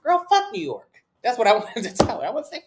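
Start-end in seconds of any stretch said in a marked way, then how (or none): 0.0-1.0 indignant outburst. Real, not acted. Outburst at retold instructor.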